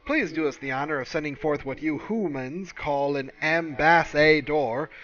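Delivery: sarcastic sing-song parody of a sugary greeting; mock-sweet alien welcome. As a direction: sneer at the aliens by aping their politeness. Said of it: "it's like".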